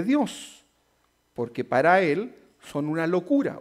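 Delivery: slow, solemn Bible reading; scripture reading. Acted. Pastor reads First Corinthians to the congregation, slow and solemn. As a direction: read it out slowly, weighing each word.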